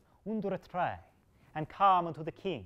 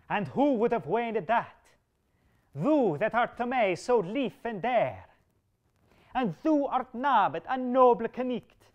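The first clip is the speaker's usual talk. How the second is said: angry king; 2 semitones higher, 5 dB louder than usual. Acted. King's furious threat to Bedivere.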